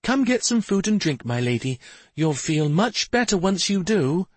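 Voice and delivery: high, gentle coaxing fairy voice; caring fairy attendant, pitched high; soft soothing fairy. A narrator's reading. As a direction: coax her kindly in a high fairy voice. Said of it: "she said softly".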